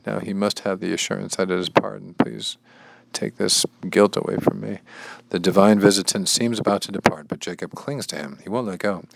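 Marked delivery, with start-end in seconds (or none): 2.1-4.8 higher-pitched earnest begging; pleading. Acted. Reader as Jacob begging relief from guilt, pleading. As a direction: implore in a raised pitch.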